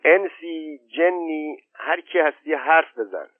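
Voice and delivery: high, carrying call into the dark; old woman calling into the ravine, high and carrying; calling down the valley. A narrator's reading. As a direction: call out to an unseen spirit, pitched high. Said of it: "ننه خانم داد زد".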